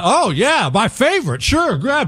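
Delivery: forced enthusiasm. Retelling being offered snails, imitating own fake excitement. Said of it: "You have to act like you're excited".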